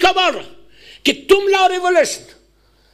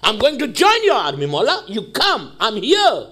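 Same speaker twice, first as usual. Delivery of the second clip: slow, lower, earnest plea; pleading call to the Imam; 4 semitones lower, much slower than usual. Acted. Preacher calling his Mola, slow earnest plea. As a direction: call out to your Mola with longing. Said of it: "مجھے right ہے یہ کہنے کی".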